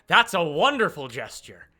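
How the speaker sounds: a hint of a smug broker, voiced up; Phoebe. Phoebe to Hurricane over the gold, lightly voiced and pleased.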